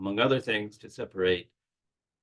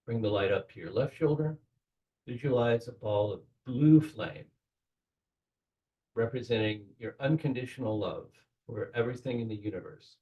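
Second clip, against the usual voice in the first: guided meditation. Acted. Guiding the group through the Kabbalistic cross, in a calm meditation voice. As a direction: lead the listeners gently into the ritual.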